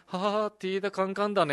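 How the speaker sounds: mock elated remark to himself; imitated over-excited friend. Mimicking a friend thrilled by sunny weather on a mainland camp, mock-excited. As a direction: play a lightly giddy camper talking alone. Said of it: "一人多分テンション上がったのか".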